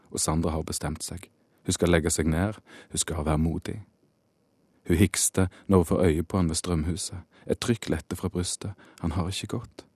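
measured literary reading voice; story narration. A narrator's reading. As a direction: read it like the author at a reading. Reads his novel aloud.

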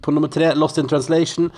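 game show host. Acted. Hosts the entertainment wheel.

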